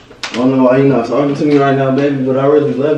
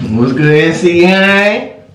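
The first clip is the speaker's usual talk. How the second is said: mock vlog greeting; 3 semitones higher, much slower than usual. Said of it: "I should do this tutorial".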